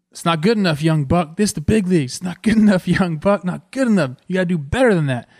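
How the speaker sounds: retold taunt from an old-school teammate; tough veteran coach. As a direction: needle the young guy like a gruff mentor. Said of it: "You know what he says to me?".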